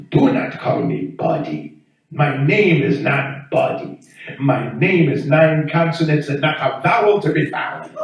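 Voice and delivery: imitated African accent, offended and emphatic; ticked-off African neighbor. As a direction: play an indignant man with an African accent. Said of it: "he just got ticked off".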